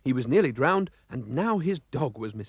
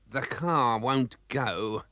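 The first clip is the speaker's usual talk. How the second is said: complaining; much slower than usual. Acted. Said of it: "complained Mister Bumblebee".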